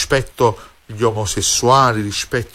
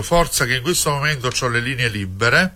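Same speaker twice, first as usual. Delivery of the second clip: ad read. Acted. Phone number ad read over music.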